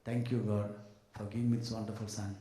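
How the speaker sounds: a parent quietly thanking God at the altar; understated sincere prayer; thankful prayer. Retold or imitated. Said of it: "stand in the altar and say".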